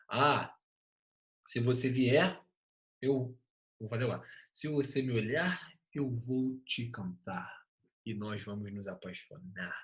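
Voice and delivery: mock poem recital. Teacher improvises a love poem for class, mock poetic.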